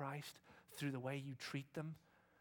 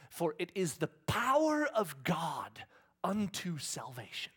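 slow, very loud, raised scripture declaration; booming proclamation; 4 semitones higher, 11 dB louder, slower than usual. Acted. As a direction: proclaim it slowly at full force. Preacher proclaims a scripture verse.

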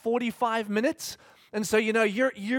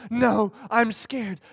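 slow whine; much slower than usual. Retold or imitated. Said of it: "Well, you have to go".

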